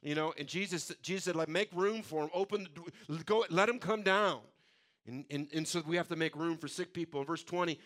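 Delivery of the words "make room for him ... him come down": calling out orders. Retold or imitated. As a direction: urge them on, building to a raised voice. Acted Jesus calling out orders.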